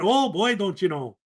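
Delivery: a light Minnesota Fargo lilt; a half-hearted Fargo accent, mostly own voice. Retold or imitated. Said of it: "imagine the movie Fargo".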